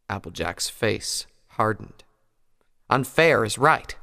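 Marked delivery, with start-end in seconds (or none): 2.9-3.9 slow, clipped anger; angry. A narrator's reading. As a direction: bite the words out slowly. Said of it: "she said angrily".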